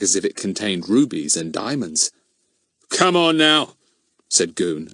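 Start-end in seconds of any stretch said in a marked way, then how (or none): 2.9-3.8 high, loud pressing order; impatient push. Acted. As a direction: close in on him, impatient. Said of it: "advancing on him".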